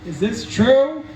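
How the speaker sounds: furious dad. Retold or imitated. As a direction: play the outraged father, half-hammed. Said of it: "And he was furious".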